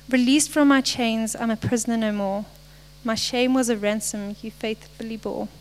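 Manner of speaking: measured recitation, each phrase starting firm and tailing off; reading lyrics aloud. Acted. Speaker reads worship lyrics to the congregation, measured recitation. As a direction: recite the verses phrase by phrase with pauses.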